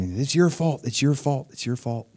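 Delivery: repeated needling accusation, fading on the last; mock accusation. The enemy accusing the believer, lightly mocking repetition. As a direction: imitate an accuser repeating the charge. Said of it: "the enemy will accuse you".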